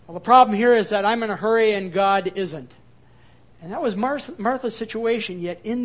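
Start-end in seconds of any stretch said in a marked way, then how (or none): 0.1-2.7 louder, half-joking frustrated answer; exasperated reply. Retold or imitated. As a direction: blurt it out, impatient. Brooks answers his friend.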